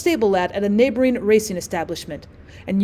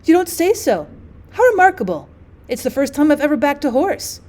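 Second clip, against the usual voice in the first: higher, brighter exclamations of delight; 4 semitones higher than usual. Acted. Lady Susan telling the guests about her winning horse, delighted. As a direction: gush over the surprise win.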